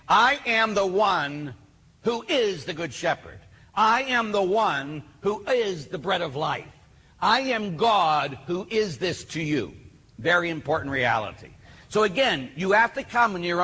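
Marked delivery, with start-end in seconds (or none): 0.1-9.8 slower, higher, each I am weighed; slow emphatic voice of Jesus. Retold or imitated. Preacher voicing Jesus to the men's conference, slow and emphatic. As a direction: speak as Jesus declaring who he is. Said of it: "he's saying".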